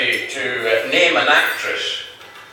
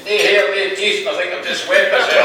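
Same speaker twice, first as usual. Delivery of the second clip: put-on higher-pitched old man punchline; chipper old man; 6 semitones higher than usual. Slim explains to his friend, higher-pitched and chipper. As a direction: list it off in a raised old man's voice.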